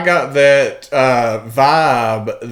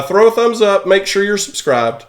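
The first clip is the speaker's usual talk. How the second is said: much higher, upbeat sign-off; excited outro; 7 semitones higher than usual. Real, not acted. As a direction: pump up the viewers to subscribe. Outro call to subscribe.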